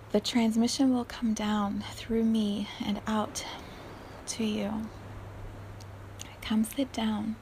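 soft, breathy unvoiced delivery; whispered guided meditation; meditative whisper. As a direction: hush it like a blessing.

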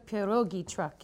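pierogi truck in a hammed-up Polish accent. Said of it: "using my best Polish accent".

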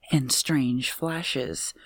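slow and hushed "and strange flashes"; spooky whisper. Acted. Newsreader hushing her voice for a ghost story, whispered.

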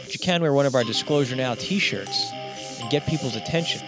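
upbeat promo voice over music; ad read. Acted. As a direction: read it like a podcast ad.

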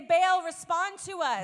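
slow called-out plea to Baal; drawn-out cry to a silent god; mock pagan shout. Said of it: "they began to scream".

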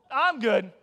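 mock bowing out. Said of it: "I'm Ezekiel, I'm out".

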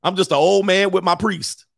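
lightly voiced frail old man; a hint of a feeble old man. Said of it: "wanted to appear like".

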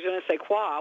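"je ne sais quoi" in a New York accent, hard kw in quoi. Shown as a demonstration. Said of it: "say it with a New York accent".

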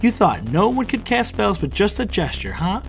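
high, loud gloating sneer; mock a beaten opponent; villain's taunt. A narrator's reading. Villain gloating over the hero she just knocked down, taunting.

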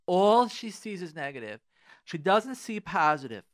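indignant repeat. Retold or imitated. Husband's complaint repeated with emphasis.

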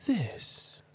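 very soft, high-pitched single word; hushed intro. Pretend. Host trying a hushed intro instead of shouting, softly. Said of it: "Let's try something different".

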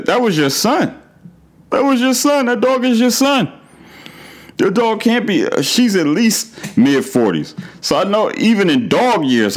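squeaky exasperated disbelief; incredulous high-pitched rant. Real, not acted. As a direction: voice shooting way up in disbelief. High incredulous rant at dog owner.

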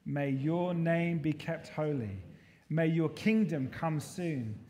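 slow, measured prayer recital; unhurried, evenly paced communal prayer; congregational prayer reading. Real, not acted. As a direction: lead the congregation through it slowly, phrase by phrase. Reads the prayer together.

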